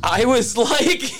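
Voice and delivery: laughing through the words. Real, not acted. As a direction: breaks into a laugh mid-line. Laughs while speaking.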